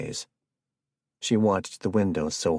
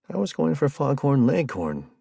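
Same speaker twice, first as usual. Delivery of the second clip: perplexed; 8 semitones higher, 4 dB louder than usual. Acted. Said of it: "Jared said, perplexed".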